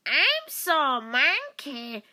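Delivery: slow loud Ash line; Ash impression. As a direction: stretch each word out like a big oaf. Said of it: "Ja, das ist Ash".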